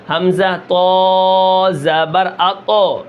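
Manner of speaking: slow حمزہ تو زبر اتو with a bouncing echo on ط; qalqala bounce. Shown as a demonstration. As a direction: stretch it and shake the final ط. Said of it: "قلقلہ کر رہے ہیں". (قلقلہ کے ساتھ آہستہ تلاوت)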